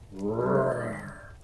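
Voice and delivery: a gentle pretend lion growl; mock lion roar. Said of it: "growled the lion".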